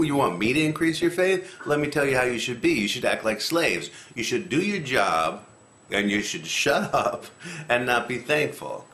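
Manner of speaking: mildly irritated retort to a needy request; miffed, a little irritated. Acted. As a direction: put them in their place, half-joking. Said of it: "he's miffed, a little irritated with them".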